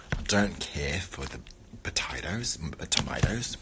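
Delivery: soft whispered aside. Real, not acted. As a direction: drop to a whisper.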